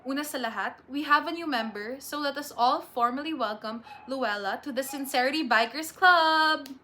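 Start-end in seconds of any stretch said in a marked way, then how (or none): 2.0-6.7 rousing welcome. Acted. President formally welcomes new member.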